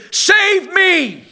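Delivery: high, far-off imitated plea; distant cry for help. Preacher voicing souls in the distant sea, far-off mock cry. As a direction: call up as if from the depths of the ocean. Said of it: "souls hollering and screaming there".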